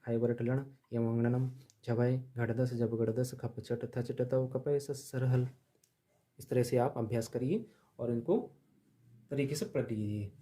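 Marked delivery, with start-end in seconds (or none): 0.1-5.5 quick reading. Shown as a demonstration. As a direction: rattle through the sutras fast. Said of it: "एक बार मैं जल्दी जल्दी पढ़ देता हूँ".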